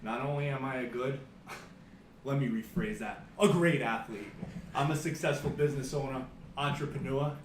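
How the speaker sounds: hyped-up pro wrestler promo; wrestling promo. Pretend. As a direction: brag like a wrestling heel on the mic. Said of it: "Are you ready to cut a promo?".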